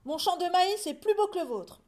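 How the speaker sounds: loud, high bragging yell; yelling boast. A narrator's reading. Farmer boasting to his neighbour, yelling. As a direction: holler it at a rival. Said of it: "hurlait Monsieur Legrand".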